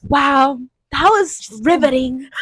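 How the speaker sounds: slow, mock-awed drawl; a hint of fake wonder. Student imitates the teacher's slow, awed praise. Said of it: "She was like".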